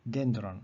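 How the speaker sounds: "dendron" accented on DEN, falling; stress on first syllable. Shown as a demonstration. Teacher repeating short-vowel example, "dendron" stressed on DEN. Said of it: "Here the accent is penult".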